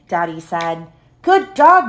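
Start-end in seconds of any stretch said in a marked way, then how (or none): 1.2-1.9 high, louder happy praise; excited praise. A narrator's reading. Girl praising the dog who saved baby, bright cheer. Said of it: "Cassie said".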